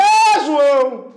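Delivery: drawn-out high calls across the street; Bahian street calling. Acted. Teacher imitating Bahians hailing passers-by, drawn-out calling. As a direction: holler to passers-by, stretching the last syllable. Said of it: "chamar no modo baiano de ser".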